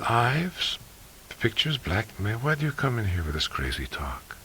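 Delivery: lightly voiced young woman, scornful; a hint of a haughty foreign woman; Uli, indignant. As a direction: brush off the accusation with disdain. Uli retorts to McGee.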